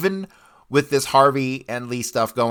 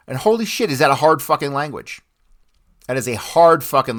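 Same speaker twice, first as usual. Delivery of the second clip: a much higher exclamation of disbelief; exclaiming; 5 semitones higher, 4 dB louder than usual. Real, not acted. Telling listeners how hard Russian was, amazed.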